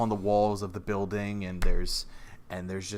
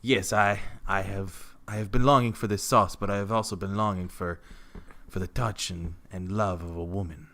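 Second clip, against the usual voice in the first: put-on romantic declaration in a light Russian accent; wavering Russian accent. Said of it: "Victor's accent tends to go in and out".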